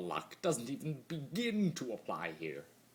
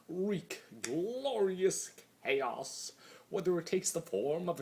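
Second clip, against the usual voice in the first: slow, high, louder savouring of each word; grand relish; 9 semitones higher, 4 dB louder than usual. Acted. Discord proclaiming his purpose, slow, high and gleeful. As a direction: roll it out like a gleeful villain.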